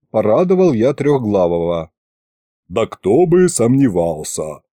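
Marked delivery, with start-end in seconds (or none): 2.7-4.6 snorting. Acted. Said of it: "фыркнула правая голова".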